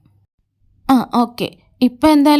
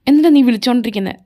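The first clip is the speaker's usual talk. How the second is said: quick, sharp and a little louder; irritated snap; 4 dB louder, faster than usual. Acted. Annoyed at the caller who keeps ringing, snapping fast. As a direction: cut him off, fed up with the calls. Angry reply to repeated calls.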